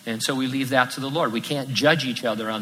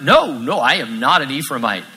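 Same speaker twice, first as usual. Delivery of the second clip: 1 nervous denial; 5 dB louder than usual. Retold or imitated. Fugitive denying his tribe.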